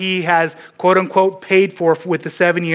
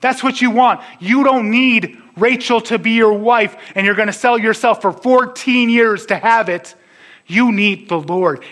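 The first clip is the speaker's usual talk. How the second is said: high-pitched, urgent mock shout of appeal; imagined shout; 6 semitones higher than usual. Preacher calling to Jacob about Rachel, urgent imagined shouting. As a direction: call out as if to talk sense into him. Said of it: "we want to shout to Jacob".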